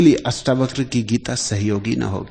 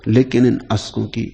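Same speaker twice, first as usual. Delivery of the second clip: measured poetic recitation, slowing after the opening line; verse recitation; 4 dB louder than usual. Acted. Teacher quoting a verse on tears to listeners, poetic recitation. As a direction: recite the couplet with a strong start, then ease off.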